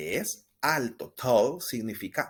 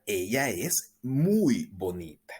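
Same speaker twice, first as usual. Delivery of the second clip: slow, breathy whispered gloss; slower than usual. Shown as a demonstration. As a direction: whisper the meaning to the class. Teacher translating in a whisper.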